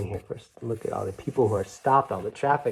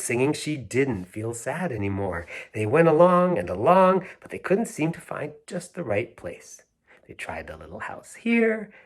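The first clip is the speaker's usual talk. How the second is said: gentle read-aloud storytelling; a storyteller reading The Little House to children; story narration; 3 dB louder than usual. A narrator's reading. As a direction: read it like a bedtime picture book. Reads picture book aloud.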